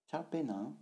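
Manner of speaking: "Charpe nan" high, with a rise on "nan"; slightly rising last tone. Shown as a demonstration. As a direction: lift the end of "nan" in "Charpe nan". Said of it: "un peu montant".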